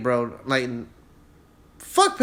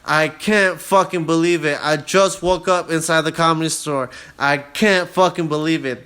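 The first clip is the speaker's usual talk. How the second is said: excited disbelief; 4 semitones higher, 5 dB louder than usual. Retold or imitated. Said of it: "that Instagram story where I'm like".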